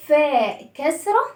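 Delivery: "فاء كسرة" spoken slowly; slow drill. Shown as a demonstration. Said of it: "teacher drills the name".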